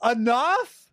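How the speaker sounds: high, slow fake sob through the words; mock crying. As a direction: wail it like a hammed-up breakdown. Mock sobbing about not emo enough.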